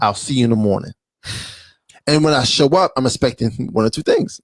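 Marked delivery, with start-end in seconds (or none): 0.0-0.9 lower, easygoing, unbothered tone; calm cool reply. Retold or imitated. Man calmly telling his date to rest, lower easy tone. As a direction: keep it chill and reassuring. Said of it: "he would have been sensible and say".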